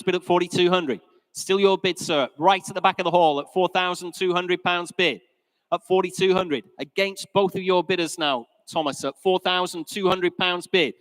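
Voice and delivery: brisk, rhythmic auctioneer calling bids. Real, not acted. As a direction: rattle off the bids to the room.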